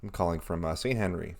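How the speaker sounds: low, halting cool-guy voice; put-on cool voice. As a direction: drop your voice to sound cool. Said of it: "this is just a voice you're doing".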